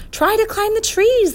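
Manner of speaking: high, loud urgent call; crying out. A narrator's reading. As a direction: call the instruction out over the din. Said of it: "the professor cried".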